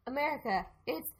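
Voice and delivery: lightly mocked presidential impression; hammed drawn-out "huge"; Trump. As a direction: do a playful politician parody. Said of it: "do your Trump impression so good".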